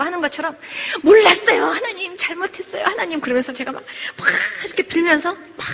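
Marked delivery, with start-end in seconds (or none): 1.0-3.2 high-pitched begging, retold; tearful-style imitated repentance; pleading like a child. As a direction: plead for forgiveness like a child to its mother. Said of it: "엄마한테 막 손바닥을 빌면서 잘못했다고".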